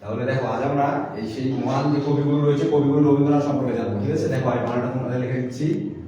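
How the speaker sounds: mildly projected teaching voice; classroom teacher addressing children. Pretend. Candidate introduces the poet to pretend pupils, mildly projected teacher voice. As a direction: introduce the lesson to young pupils.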